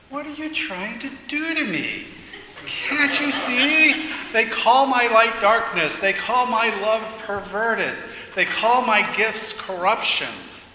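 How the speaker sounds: high, strained pleading protest; desperate outburst. Acted. Man demanding what God asks of him, desperate and loud.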